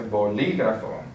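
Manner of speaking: bolígrafo with the stress on LÍ; bo-LÍ-grafo, leaning on the second syllable. Shown as a demonstration. Teacher showing where the written accent falls, stressed syllable. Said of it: "since we have the accent on the I".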